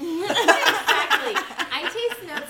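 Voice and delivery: laughing. Real, not acted. Laughing at the meme.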